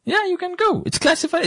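high, insistent emphasis; emphatic. Real, not acted. Emphatic high repeat of claim.

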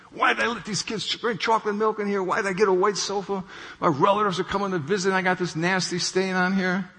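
a touch of upset venting over the stained sofa; mildly angry wife. Retold or imitated. Wife fretting over a ruined new sofa, mild anger. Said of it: "Boy, is she angry".

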